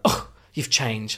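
mock exasperated groan, slowly dragged out; eye-rolling disapproval. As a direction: imitate disapproving folks back home. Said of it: "eye rolling and just like, ugh".

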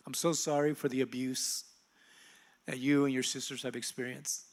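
softly retold apology, falling away; remorseful apology. Mother apologizing for abuse, quiet and remorseful. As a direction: gently relay a mother's regret.

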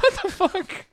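high, loud mock astonishment; shocked outburst. Strangers realizing he lives their way, shocked outburst. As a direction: squeal the disbelief out.

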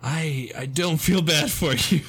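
slow, stretched mock sob; mock crying. Quoting a comic video's crier, mock tearful. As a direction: imitate a tearful non-apology. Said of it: "it's, like, crying".

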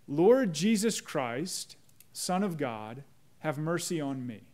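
slow, reverent recitation; slow prayer. Shown as a demonstration. Pastor shows the congregation how the prayer goes, slow and reverent. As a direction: pray it slowly, weighing each word. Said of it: "The Jesus prayer goes like this".

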